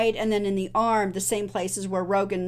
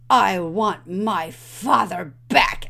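slow grim line; 5 dB louder, much slower than usual. Retold or imitated. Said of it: "he looks at him and he says".

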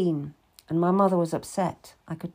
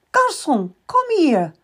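a raised, higher call from behind; 8 semitones higher, 5 dB louder than usual. Acted. Madame calls after the boy in the street, raised voice. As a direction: call him back across the street.

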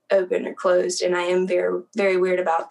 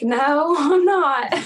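amused denial; 4 semitones higher, 4 dB louder, much slower than usual. Retold or imitated. Retells denying being from South.

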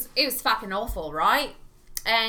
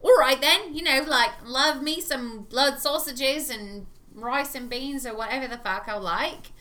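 stronger fake English accent; 3 semitones higher, 3 dB louder than usual. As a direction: lay the English accent on thick. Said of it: "the stronger the accent came".

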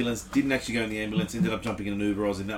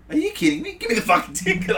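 high-pitched retold outburst; incredulous eagerness; 8 semitones higher than usual. Patient retelling his answer to a ticket offer, incredulous and eager. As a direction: leap at the offer in mock disbelief.

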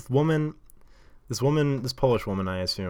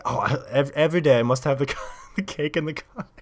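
gushing Polish-accented imitation, breaking into laughter; emphatic mock Polish accent; excited Polish accent; 5 semitones higher, 4 dB louder than usual. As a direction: mimic an earnest tourist with a Polish accent. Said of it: "talking excitedly with what I can only".

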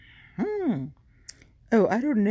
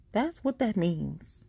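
slow repeat; 4 semitones higher, slower than usual. Shown as a demonstration. Host repeats the meaning for listeners, slow and deliberate. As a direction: lay it down slowly the second time.

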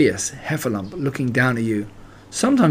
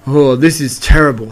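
dismayed; 6 dB louder than usual. A narrator's reading. Piglet thinks in dismay.

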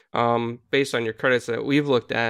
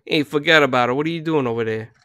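Brooklyn Italian accent; faster than usual. Shown as a demonstration. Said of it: "Italian American Brooklyn English accent".

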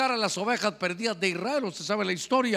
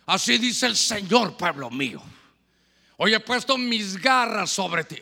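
mock prophetic proclamation; 3 dB louder than usual. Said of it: "le tuvimos que quitar el micrófono".

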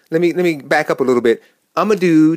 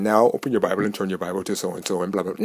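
stuffy preacher; 6 semitones lower, 5 dB quieter than usual. Retold or imitated. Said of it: "staunchy type presentation".

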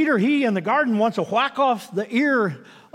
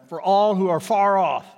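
ALL leaned on, slow and louder; emphasis on all; 4 dB louder than usual. Shown as a demonstration. Preacher savouring the verse for the congregation, stress on all. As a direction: hit the word all, slowly. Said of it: "I like that part".

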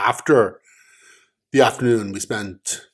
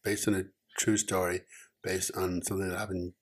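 much softer, barely carrying to the mic; too quiet; 4 semitones lower, 7 dB quieter than usual. Real, not acted. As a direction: talk low and withdrawn, under the mic. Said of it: "you're talking so quietly".

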